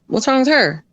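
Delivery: imitated mother. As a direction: lightly imitate a puzzled mother. His mother's retold question.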